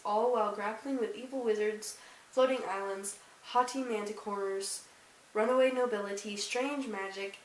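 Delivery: measured read-aloud of a book blurb. Acted. Vlogger reads viewers the blurb on the back, read-aloud. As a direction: read it out like back-cover copy.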